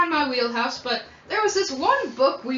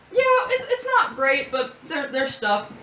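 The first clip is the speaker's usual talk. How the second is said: Catherine; 3 semitones higher, slower than usual. Acted. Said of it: "She's like".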